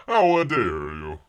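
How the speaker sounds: loud, slow hammed-up indignation; mock outrage. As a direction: play it offended.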